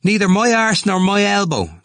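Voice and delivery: high, loud jeer; scornful cry. A narrator's reading. Temple taunting Cranley about limbo, scornful cry. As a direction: cry it out with scorn, pitch right up. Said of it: "Temple cried out scornfully".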